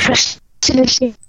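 slow, choppy, broken-up line; stretched words on a bad connection; glitchy robotic call. Real, not acted. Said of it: "Ich höre dich ganz abgehackt".

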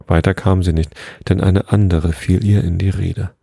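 measured, even storybook reading; story narration. A narrator's reading. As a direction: read a children's tale aloud, unhurried.

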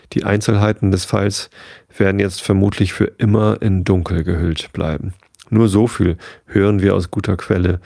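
even, measured audiobook reading; story narration. A narrator's reading. Narrator reading a newspaper report to bedtime listeners, measured storytelling. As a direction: read it out like a newspaper report in a novel. Reads the novel aloud.

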